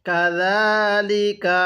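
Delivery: slow, drawn-out Arabic recitation; ধীরে তিলাওয়াত; slow Quran recitation. Shown as a demonstration. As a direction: recite each syllable slowly for the student. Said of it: "কিভাবে পড়ব?".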